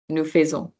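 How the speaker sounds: "Nous faisons" with no S sound after "Nous"; silent S. Shown as a demonstration. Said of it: "the nous pronunciation is just nous".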